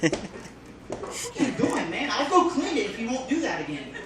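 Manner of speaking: laughing, mock pleading; laughing, pleading kid. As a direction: giggle through the bargaining. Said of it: "kid reacting to pose".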